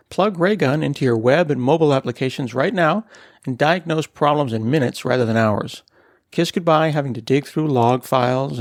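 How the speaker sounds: upbeat sponsor read, slowing for the web address; friendly host reading a sponsor message. Acted. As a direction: sell it like a podcast ad spot.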